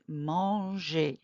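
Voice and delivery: manger with its final E sounded as a clear "ay"; accented final E. Shown as a demonstration. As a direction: say manger slowly, ending on a full é sound. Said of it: "we're gonna pronounce that E".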